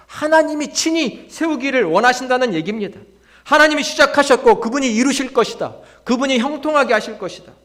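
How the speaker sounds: high, loud proclamation; forceful declaration of faith; impassioned preaching. Real, not acted. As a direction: drive each promise home from the pulpit.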